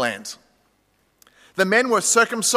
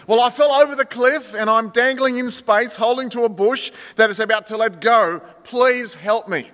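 higher, slowing plea; desperate plea; 4 semitones higher than usual. Acted. Tourist on the bush begging God, higher and desperate. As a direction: beg as you slip. Dangling man pleads.

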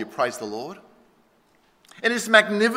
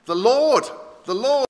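raised, higher proclamation of God's name; proclaiming; 4 semitones higher, 4 dB louder than usual. Acted. God passing before Moses, proclaiming his name. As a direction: proclaim it out with weight. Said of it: "in front of Moses proclaiming".

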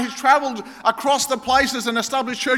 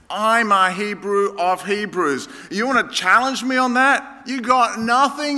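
combative boast. Acted. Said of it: "I go on the attack like Paul".

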